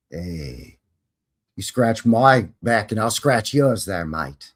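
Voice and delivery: casual, put-on Australian accent; Aussie accent. Podcaster trying a Kiwi voice comes out Aussie, Australian accent. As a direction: slip into a rough mock Aussie accent. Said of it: "I'm doing an Aussie accent".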